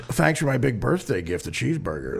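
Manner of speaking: imitating a manager's mild sarcasm; mock thanks with an understated sarcastic edge. Manager sarcastically thanking his client for a birthday cheeseburger, mildly sarcastic. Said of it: "you know, sarcastically".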